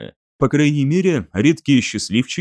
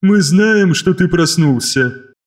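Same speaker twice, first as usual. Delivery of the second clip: high, loud, emotionless chorus; eldritch horror; 4 semitones higher, 4 dB louder, slower than usual. Acted. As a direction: speak as a sexless collective voice. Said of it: "совершенно отсутствовали как эмоции, так и признаки пола".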